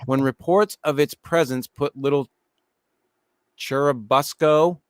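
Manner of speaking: measured documentary-style narration; even, scripted storytelling delivery; article read-aloud. Acted. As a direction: read the write-up to your co-hosts. Reads a list article aloud.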